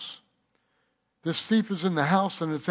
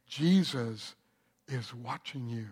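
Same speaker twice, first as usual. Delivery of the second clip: low, soft parrot voice; spooky voice from the cage; eerie bird voice; 7 semitones lower, 8 dB quieter than usual. Acted. Bird speaking low to the thief in the dark.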